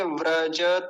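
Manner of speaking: व्रजत as "vra-ja-ta"; careful three-syllable व्रजत; all syllables full. Shown as a demonstration. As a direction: give व्रजत its final a. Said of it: "तो कैसे बोलेंगे".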